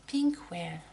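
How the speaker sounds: French-accented attempt at English "Pink Well"; "Pink Well" with a French speaker's rough English accent; approximate English accent. Real, not acted. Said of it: "désolée pour mon accent qui est un peu approximatif".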